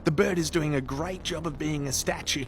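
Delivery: hushed nature-documentary whisper; whispered commentary. Acted. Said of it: "Whispering Aussie Man here".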